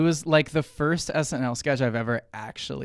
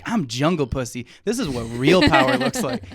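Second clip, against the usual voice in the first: louder dramatic action hero voice; action figure; 5 dB louder than usual. Retold or imitated. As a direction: declare it like a toy hero. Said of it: "quoting the movie".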